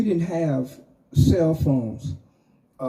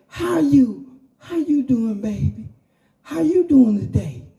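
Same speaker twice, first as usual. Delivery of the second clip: Impression of a singer; 8 semitones higher than usual. A singer calls out to a fan at the light, high and sing-song. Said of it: "And he say".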